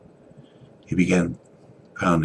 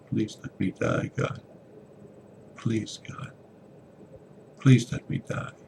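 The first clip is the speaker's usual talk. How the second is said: gasping plea; 6 semitones higher than usual. Acted. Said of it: "said with a gasping breath".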